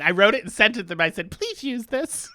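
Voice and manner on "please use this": mock pleading. Jokingly acts out begging writers.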